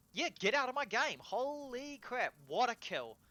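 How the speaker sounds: high, loud gloating yelp; excited yelp. Real, not acted. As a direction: squeal it out in triumph. Celebrating another kill.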